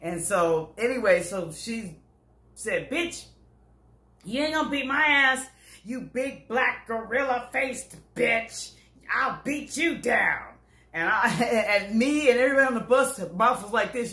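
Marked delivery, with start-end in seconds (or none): 2.9-10.4 higher, slow defiant retort; lightly voiced tiny woman standing her ground; retold comeback. Little white lady defying the big woman, mildly voiced defiance.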